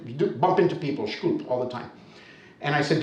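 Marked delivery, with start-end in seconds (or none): 1.1-1.5 "shkulp" squashed into one syllable; quick, reduced "shkulp"; fast, swallowed pronunciation. Shown as a demonstration. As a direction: toss off "shkulp" with the first vowel dropped. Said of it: "And they say it fast".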